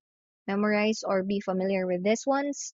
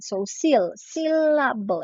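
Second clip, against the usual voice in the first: sil, then a beat, then syllable, slowly; pause after sil; 4 semitones higher than usual. Shown as a demonstration. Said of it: "because of the pause being made".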